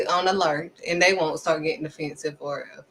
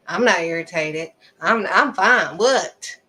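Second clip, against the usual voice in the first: snappish, mildly louder mock denial; irritated denial; 4 dB louder, slower than usual. Irritated on the phone, denying it to the caller, testy. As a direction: insist you're fine with an edge. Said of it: "you saying what like that".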